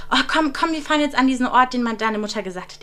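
imitating eager friend. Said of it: "sagt dann eben meine Freundin so".

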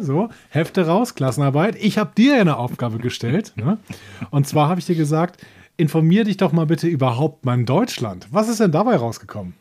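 stern schoolteacher calling the class to order; loud teacher demanding homework; strict teacher. Pretend. Mock teacher collecting homework.

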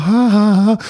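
loud staged ha ha ha; imitating his own giggling; mock laughter. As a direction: laugh it out theatrically. Mimics laughing at the DJ desk.

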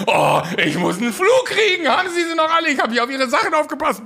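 high, loud and laughing, slowed at first; mock indignant stranger. Stranger scolding the man who ran off, hammed-up high outrage. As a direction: scold him for running off. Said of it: "denk mir so".

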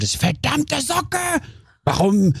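high, hammed-up wail at a sock; a mock tearful outburst at a sock; mock rant at socks. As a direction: scold the sock in mock despair. Ranting at his wet socks.

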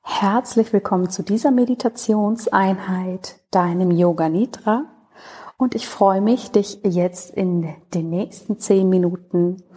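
lightly held yoga-teacher meditation tone; guided meditation. Acted. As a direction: ease the listener into relaxation, unhurried.

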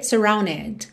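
"surrounded" with D merged into N; without D. Shown as a demonstration. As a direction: sing "surrounded" sem o D. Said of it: "Se você quiser cantar sem o D". ("surrounded" sem o D, juntando no N)

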